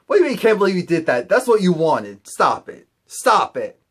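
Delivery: loud, rapid telling-off that slows on the commands; mock-scold in disbelief; fed-up comeback, punched out; exasperated scolding. Exasperated reply to Asha's regret.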